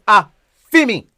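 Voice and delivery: "A, fi me" with a beat before "fi me"; "A" then "fi me" run together; rhythm of "a fi me". Shown as a demonstration. Teacher drilling the phrase's rhythm, rhythmic Patois. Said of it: "it's two word".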